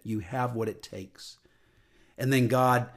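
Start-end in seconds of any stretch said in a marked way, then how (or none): 0.0-1.4 quiet remembered sign. Retold or imitated. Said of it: "I'll never forget it".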